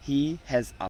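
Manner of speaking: a said as a short আ sound; article a. Shown as a demonstration. Teacher reading an example sentence, short আ. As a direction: say a as a weak আ, not এ. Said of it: "উচ্চারণ হবে আ".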